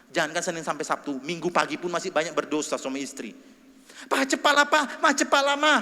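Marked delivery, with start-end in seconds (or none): 4.1-5.7 high, loud urging; impatient hurrying. Retold or imitated. Spouse rushing the other to church, high and loud. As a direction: hurry them out the door. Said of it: "mungkin intonasinya tinggi".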